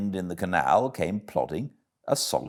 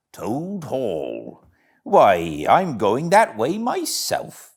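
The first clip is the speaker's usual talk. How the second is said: a lightly voiced, hearty barge woman, a touch higher; 5 semitones higher, 5 dB louder, slower than usual. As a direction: hail the passer-by like a friendly bargewoman.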